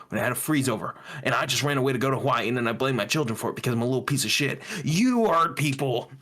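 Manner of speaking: mocking Ted Cruz. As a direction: mimic a preachy senator, half crying. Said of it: "That fucking Ted Cruz was there like".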